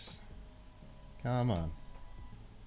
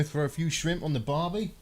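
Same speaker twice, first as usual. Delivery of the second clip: higher-pitched Aussie accent with a rising end; mock Australian accent; 6 semitones higher than usual. Shown as a demonstration. British streamer trying to pass as an Aussie, mock Australian accent. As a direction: put on a jokey Australian twang. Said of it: "I suppose they could if I really tried".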